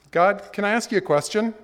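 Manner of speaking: high, loud plaintive voice; pleading man. Retold or imitated. Man questioning God, high and pleading. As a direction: whine your question upward.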